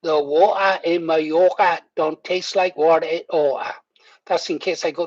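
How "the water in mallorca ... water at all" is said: whispered posh elocution drill; elocution lesson voice. Pretend. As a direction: whisper it like a diction exercise. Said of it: "elocution lessons".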